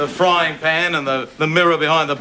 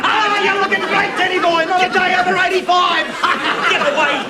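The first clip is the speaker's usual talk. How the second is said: hearty teasing greeting; 13 semitones higher than usual. Acted. Bob loudly teasing old Ted.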